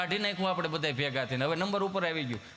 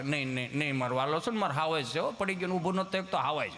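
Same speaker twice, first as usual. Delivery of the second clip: soothing mother; 4 semitones lower than usual. Retold or imitated. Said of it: "સાનું રાખે".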